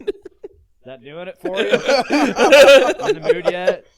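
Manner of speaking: high giggly teasing question; laughing tease. Acted.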